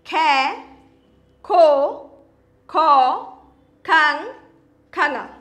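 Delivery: ख through खंगा, each syllable said slowly and clearly; reciting the barakhadi. Shown as a demonstration. Teacher reciting the ख barakhadi to children. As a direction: recite each ख syllable apart, with a pause after each. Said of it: "एक एक करके हम पढ़ेंगे इसको".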